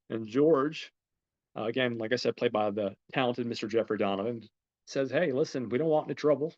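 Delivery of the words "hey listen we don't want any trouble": put-on Southern accent. Homeowner George to the intruders, Southern accent. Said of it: "They've got, like, a Southern accent".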